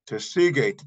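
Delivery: Tesigate said carefully with a falling end; Paiute word spoken clearly. Shown as a demonstration. Teacher repeating Tesigate for students, carefully. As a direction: model Tesigate for the learner.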